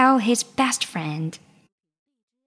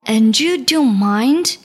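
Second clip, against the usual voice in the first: surprised; 4 dB louder than usual. Acted. King surprised.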